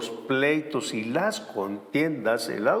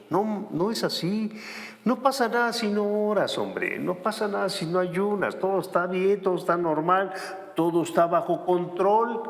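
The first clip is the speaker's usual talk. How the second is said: higher, breezy voice brushing off worry; mock complacent believer; 4 semitones higher than usual. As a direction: play the careless believer saying all is fine.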